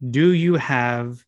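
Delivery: slow, halting customer asking for the Glenfiddich; mock customer, slow and unsure; clueless customer. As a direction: drag out the Glenfiddich like you've never seen the word. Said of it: "when you come to me and say".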